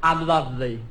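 vain wrestler. Acted. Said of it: "Beautiful Ben".

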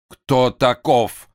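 испуганный резкий вопрос, медленно; выкрикнуть в страхе, растягивая; в ужасе. A narrator's reading. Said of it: "не с возмущением, а с ужасом". (испуганный возглас)

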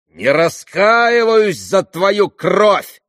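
high, loud, very slow outcry; exclamation. A narrator's reading. Dmitri crying out at his father, loud and slow. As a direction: fling it at him slowly. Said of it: "воскликнул он".

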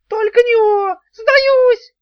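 very high, loud wailing cry; howling surrender. A narrator's reading. Worm howling surrender to Daf. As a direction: howl in terror. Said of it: "взвыла несчастная гусеница".

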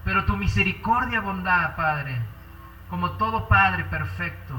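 earnest pastor's prayer, swelling and fading; fervent prayer. Acted. Pastor praying aloud for the congregation, fervent and earnest. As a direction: pour out the prayer to the Father.

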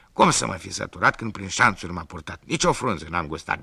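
loud whiny goat voice; a goat lying pitifully. Acted. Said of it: "capra a început să toarne la minciuni".

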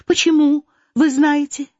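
put-on an eager girl begging her mother not to; young Natasha. Natasha voiced, pleading daughter.

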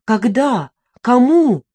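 put-on the narrator, alarmed, firing questions at the drunk widow; alarmed demand. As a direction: suddenly demand who and when. Stunned narrator demands answers.

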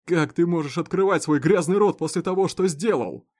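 enraged farmer shouting through the bars; angry accusation. Acted. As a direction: rage at the man who killed your family. Olson furious at the prisoner.

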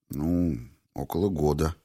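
Clifford admitting the affair to Valentina, hesitant and unsure. A narrator's reading. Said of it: "ответил он нерешительно".

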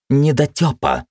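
mock-exasperated cry of a fussing girlfriend; indignant. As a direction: snap the word out in exasperation. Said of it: "возмущалась девушка".

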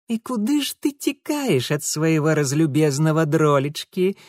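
mock-sweet threatening ruffian; menacing hiss. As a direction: sneer at the runaway sweetheart. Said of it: "прошипел он". (угрожающее шипение)

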